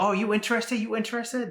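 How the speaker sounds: high mock Asian accent, pushy question. Vendor lady pushing the sale, high mock Asian accent. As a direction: pester him like the booth lady. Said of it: "excuse my terrible accent".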